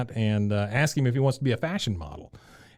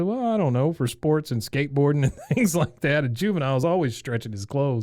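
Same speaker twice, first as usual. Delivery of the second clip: Hank; 2 semitones higher than usual. Retold or imitated. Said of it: "He said".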